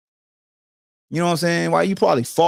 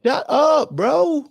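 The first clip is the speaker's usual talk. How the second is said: incredulous shut up; 11 semitones higher, much slower than usual. Real, not acted. Dismissing fans, high pitch.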